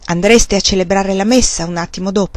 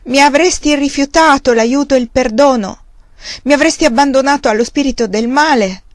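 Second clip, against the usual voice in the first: loud, high pleading cry to God; desperate shout to heaven; anguished cry; 5 semitones higher, 3 dB louder than usual. Acted. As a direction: cry out in terror of abandonment. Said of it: "gridò".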